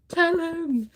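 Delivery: high, loud yell of "Tell him!"; screaming at the book. Retold or imitated. A reader yells at the book's heroine: loud, high yell. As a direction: cry out at the heroine in the story. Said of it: "I was screaming at the book".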